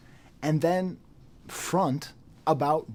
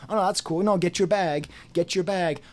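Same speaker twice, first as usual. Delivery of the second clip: higher, mock-cheerful "no, that's cool"; sarcastic mock approval; 4 semitones higher, 4 dB louder than usual. Mocking fans who excuse the sponsor, sarcastic mock approval. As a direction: sneer it like fake support. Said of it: "We're just supposed to say".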